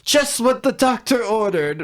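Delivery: high put-on villain voice; quoting Moodfly. Arguing about who says the line, high smug quote. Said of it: "And then Moodfly says".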